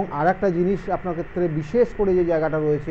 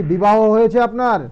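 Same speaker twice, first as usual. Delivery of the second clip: raised voice, asking again down the phone; loud repeat; 4 semitones higher, 7 dB louder than usual. Real, not acted. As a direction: call it out louder so the caller hears. Repeats for a caller who can't hear.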